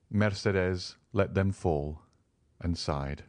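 usual speaking voice

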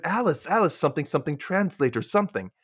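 lightly imitating an excited man; mock excited. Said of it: "Jeff gets excited".

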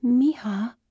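high, strained and alarmed. Acted. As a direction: call her with strain. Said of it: "Tina's voice strained".

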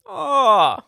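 high, loud, hammed-up Aussie greeting; mock Australian accent. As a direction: burst into a silly Australian film impression. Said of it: "the beginning of Dumb and Dumber".

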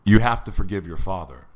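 lightly voiced God giving an order; God's voice. God answers the prisoner's screaming, lightly voiced, low and firm. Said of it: "finally I hear God say".

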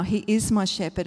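weight placed on "is"; stress on IS. Shown as a demonstration. Stressing that it holds here and now, stress on "is". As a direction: lean on "is", lighter on the rest. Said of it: "It's present tense".

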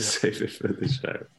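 words through a breathy laugh. Real, not acted. Guest echoing the host's joke, laughing.

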